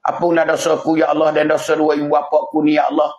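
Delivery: earnest, repeated pleading to God; acted child's prayer. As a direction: plead for dead parents at their grave. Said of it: "Dia pergi berdoa". (doa anak yang merayu)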